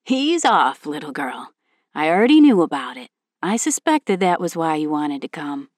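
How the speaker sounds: hearty knowing dad, lightly voiced; a hint of a jovial father; amused father voice. Tom laughing, knowing.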